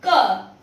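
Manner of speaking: a short, crisp isolated "क" sound; k sound demo. Shown as a demonstration. Teacher showing students how C sounds, isolated crisp "क". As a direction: sound out "क" like the start of cable. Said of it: "इसलिए इसका pronunciation हम करेंगे केबल".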